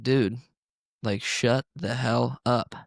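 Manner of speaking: slow, spaced-out telling-off; retold exasperation. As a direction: spell out your annoyance slowly, word by word. Retold exasperation at noisy teenagers.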